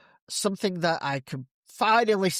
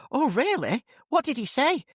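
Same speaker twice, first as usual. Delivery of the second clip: much higher, eager and curious; eager hairdresser; 10 semitones higher than usual. Acted. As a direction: jump at the gossip, high.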